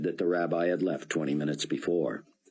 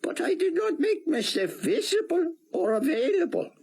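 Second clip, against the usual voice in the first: put-on higher, heavy Hebrew-accented rabbi; thick Hebrew accent; 3 dB louder than usual. A narrator's reading. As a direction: speak English through a thick Hebrew accent. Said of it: "in his thick Hebrew accent".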